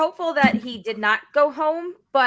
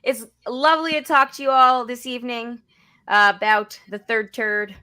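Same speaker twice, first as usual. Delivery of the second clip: fake podcasting voice. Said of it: "With his fake podcasting voice".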